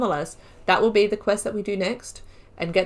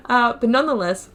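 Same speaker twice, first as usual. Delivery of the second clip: laughing; 4 semitones higher, 5 dB louder than usual. Real, not acted. Laughing into next line.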